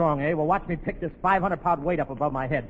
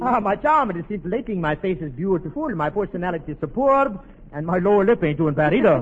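put-on Charles Boyer lover; 3 dB louder than usual. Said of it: "I'm Charles Boyer".

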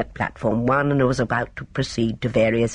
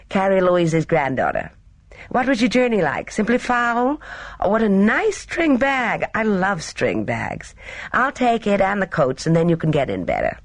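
put-on higher, lively, chatty young woman; breezy young Gina; 5 semitones higher than usual. A narrator's reading. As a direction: gush lightly and take charge.

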